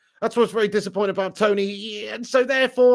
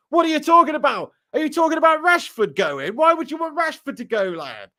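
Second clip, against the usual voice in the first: incredulous; 8 semitones higher, 4 dB louder than usual. Real, not acted. Incredulous reply to a chat viewer.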